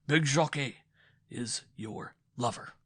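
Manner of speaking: loud, building fury; rising to a shout of betrayal; jealous husband accusing his wife of an affair; angry accusation. A narrator's reading.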